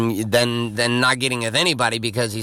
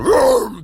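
loud spoken vroom; imitated wave roar; 10 semitones higher, 6 dB louder than usual. Telling of a wave break, imitated roar.

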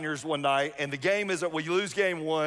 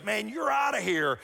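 mock umpire yell, pitched up; umpire ejection; 4 semitones higher than usual. Umpire throws the senior out, mock shouted.

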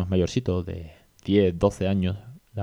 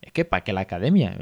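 mild mock annoyance; 2 semitones higher than usual. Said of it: "lo hacía muy mosqueado".

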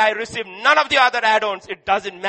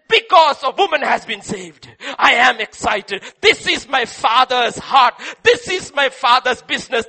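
louder, urgent cry of Jesus' joy; fervent preaching; 5 dB louder than usual. Acted. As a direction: proclaim it with rising force.

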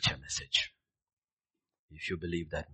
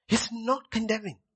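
whisper; 7 dB louder than usual. Acted. Whispered aside in sermon.

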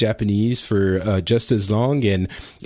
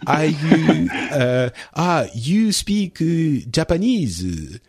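mock Japanese accent; 6 semitones higher, much slower than usual. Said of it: "making fun of Japan".

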